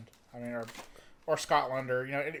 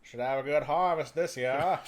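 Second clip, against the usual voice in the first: put-on old farmer voice; 6 dB louder than usual. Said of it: "I was trying to do the".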